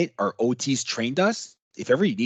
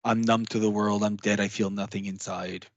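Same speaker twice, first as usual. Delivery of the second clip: numb, shut down; 4 semitones lower, 4 dB quieter than usual. Shown as a demonstration. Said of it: "Or people are hypo".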